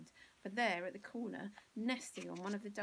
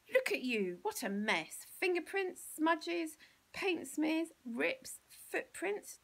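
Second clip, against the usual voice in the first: higher and louder, shocked listing; horrified mother; 9 semitones higher, 8 dB louder, slower than usual. Acted. Mother lists the frock's damage in loud shocked dismay. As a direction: spit out each horror.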